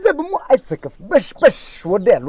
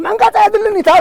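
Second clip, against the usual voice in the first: sharp, much higher, louder retort; angry outburst; 10 semitones higher, 4 dB louder than usual. Acted. Father shouts at the official that he needs no obstruction, angrily. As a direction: snap back at him in anger. Heated argument over obstruction.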